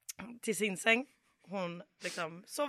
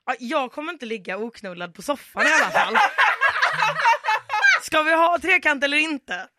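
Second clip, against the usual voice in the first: higher and louder, laughing through it; laughing mock drunk yell; 7 semitones higher, 9 dB louder than usual. Drunk mother yelling at the couple, laughing mock demand.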